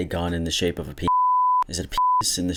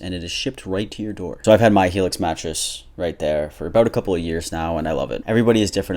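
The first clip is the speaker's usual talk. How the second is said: upbeat sponsored ad read. Acted. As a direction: sell the mattress with bright pep.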